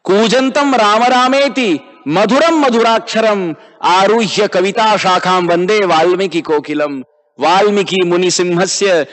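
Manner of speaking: rhythmic shloka chant with long vowels; Sanskrit verse recitation. Acted. Preacher quotes Ramayana verses to class, rhythmic recitation. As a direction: recite the verse in flowing metre.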